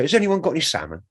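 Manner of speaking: brisk performed patter, stretching the last word; song patter. Retold or imitated. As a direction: reel off the spoken song hook. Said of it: "a bit in the song where I say".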